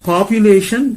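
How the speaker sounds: population with a /ju/ glide, pap-YOO-lation; British pronunciation. Shown as a demonstration. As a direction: say Population the British way, pop-yoo-lay-shun.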